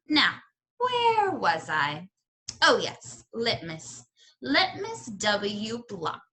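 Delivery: put-on slow, musing old lady; old storyteller. Old librarian returns to her tale, slow and musing. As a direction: pick the thread back up slowly.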